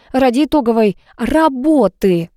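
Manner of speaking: stretched-out emphasis on "итоговой работы"; emphatic. A narrator's reading. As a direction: underline "итоговой работы" deliberately. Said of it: "подчеркнула я".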